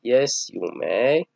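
very slow, clear permission; slow model answer. Shown as a demonstration. Teacher voicing the teacher's yes, slow. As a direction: grant it slowly for the class. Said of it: "إذن تقول له".

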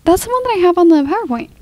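talking around an ice cube; ice in mouth. Real, not acted. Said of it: "I have ice in my mouth".

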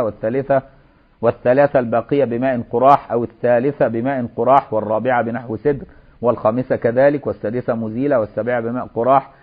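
measured classical Arabic recitation of a legal text; formal text reading. Acted. Teacher reads the washing sequence to students, formal reading. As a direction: read it out in careful formal phrases.

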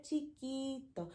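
soft little voice; small voice. Shown as a demonstration. Teacher showing chiquito in a soft, small voice. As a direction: drop to a tiny volume. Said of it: "big and small".

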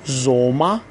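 زوما ending in an open "a", no r; final R as A. Shown as a demonstration. Teacher showing German learners a rule, زوما ending in "a".

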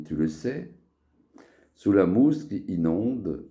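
measured verse, line by line; poem recitation. Acted. Poet reciting a poem to friends, poem recitation. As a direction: recite verse in short phrases, pausing between them. Récite son poème sur la bière.

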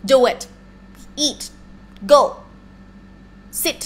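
curt orders, one word at a time; demanding. Retold or imitated. Teacher showing how a blunt Thai command sounds, demanding. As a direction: snap out commands like a bossy boss. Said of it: "it's more like demanding".

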